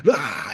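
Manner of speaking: restrained imitation of a scream; mock curse cry. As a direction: fake hurling a curse with a cry. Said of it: "he throws a curse".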